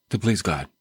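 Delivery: a light joking French accent, with "impossible" said the French way; mock French. Shown as a demonstration. Radio preacher jokingly repeats the verse in a mock French accent. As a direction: say "impossible" as im-po-SEE-bluh, like a Frenchman. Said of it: "Let me say it in French".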